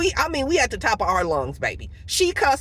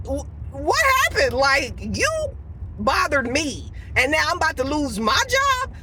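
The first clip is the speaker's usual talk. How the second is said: higher-pitched, stammering disbelief; confused; 4 semitones higher than usual. Retold or imitated. Upset worker about to lose her job, confused and incredulous. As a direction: protest in bewildered indignation. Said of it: "I was confused".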